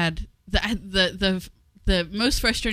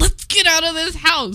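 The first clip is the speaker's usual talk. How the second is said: put-on scream, higher and louder; 10 semitones higher, 7 dB louder than usual. Retelling being cranky before leaving: imitating own past screaming. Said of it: "I was just screaming".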